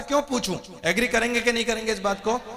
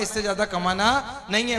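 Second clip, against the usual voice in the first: ordinary talk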